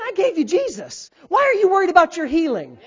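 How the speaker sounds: loud, high preacher's shout; impassioned rebuke. Acted. God challenging worried believers through the pastor, impassioned shouting. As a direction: hammer each challenge at full voice.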